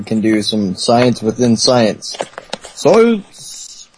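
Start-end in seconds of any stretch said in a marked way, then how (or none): 2.6-3.9 excited exclamation. Acted. Mock excited exclamation in call.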